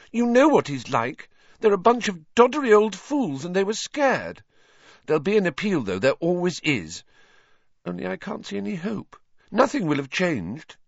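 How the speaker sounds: put-on high-pitched, distressed girl; tearful upset. A narrator's reading. Hermione wiping her eyes over the verdict, upset. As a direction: protest on the edge of tears.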